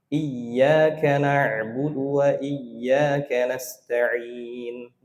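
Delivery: iyyaka with a pressed doubled y, very slow; pressed tasydid. Shown as a demonstration. Teacher shows the correct stressed tasydid.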